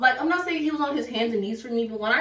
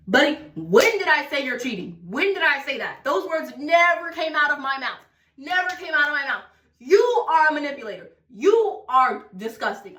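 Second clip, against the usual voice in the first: indignant; 4 semitones higher than usual. Retold or imitated. Acted argument with defensive boyfriend.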